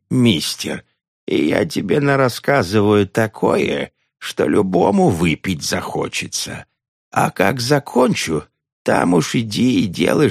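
lightly voiced cranky old nun; a hint of a cackling old woman.

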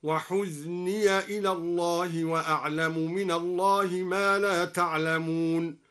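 measured chant, "وحزني" as wa-huzniya; ya with fatha. Shown as a demonstration. Teacher demonstrating Duri, "وحزني" chanted huzniya into "إلى". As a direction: recite "وحزني" with a short -ya ending, drawing out the close. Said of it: "وفتح الياء من قوله تعالى".

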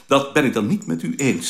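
composed, strict reply in a retold quarrel; stern retort. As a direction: retort firmly, imitating a strict superior. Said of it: "zei Beerta strak".

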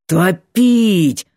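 growled. Acted. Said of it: "прорычал".

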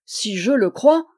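cri indigné, plus fort; s'écrie, outrée; scandalisée. Acted. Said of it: "s'écria Fanchon scandalisé". (Fanchon s'écrie, scandalisée)

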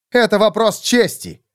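proud lord. Acted. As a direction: stand on your honour, voice lifted. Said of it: "сказал фон Фольген".

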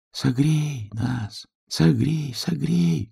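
high, slow pleading of tiny voices; grass crying out. A narrator's reading. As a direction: plead to be warmed. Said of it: "кричали травинки". (тоненькая протяжная мольба травинок)

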